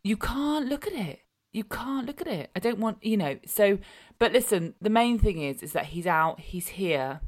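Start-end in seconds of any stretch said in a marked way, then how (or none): 0.0-2.5 high, excited repeat; emphatic high repeat. Real, not acted. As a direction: say it twice, pitched way up.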